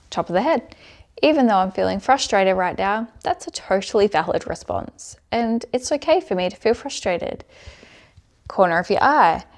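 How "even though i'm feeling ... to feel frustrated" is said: spoken firmly and a little louder, like a self-affirmation; tapping affirmation. Shown as a demonstration. Coach demonstrating tapping to viewers, firm affirmation voice. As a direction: affirm the feeling out loud while tapping. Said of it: "I'm gonna do the points now while I'm going through".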